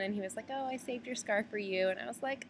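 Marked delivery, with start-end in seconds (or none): 0.5-1.9 high, sweet helpful voice; lightly voiced sweet stranger; retold sweet man. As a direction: imitate a kindly man, pitched up. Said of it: "really sweet man".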